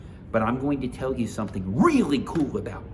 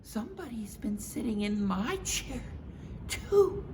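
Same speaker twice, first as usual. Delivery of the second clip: Mama Bear voice; 13 semitones higher than usual. Acted. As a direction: agree brightly with Papa.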